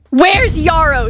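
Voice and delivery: slow, loud demanding snarl. Acted. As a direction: drag the name out, menacing. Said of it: "she snarled".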